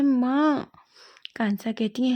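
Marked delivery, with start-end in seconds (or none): 0.0-0.7 higher, louder whiny protest; embarrassed protest. Acted. Wing protests to his mother, embarrassed and higher. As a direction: whine at mom in embarrassment.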